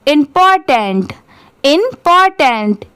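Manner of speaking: quick natural reading; at speed. Shown as a demonstration. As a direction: say इंपॉर्टेंट quickly in one smooth go. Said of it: "अब इसे speed में पढ़ेंगे".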